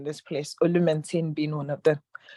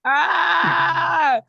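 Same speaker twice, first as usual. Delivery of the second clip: loud exclamation; 10 semitones higher, 5 dB louder than usual. Real, not acted. Burst after big laugh.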